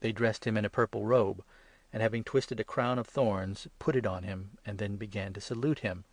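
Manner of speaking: usual speaking voice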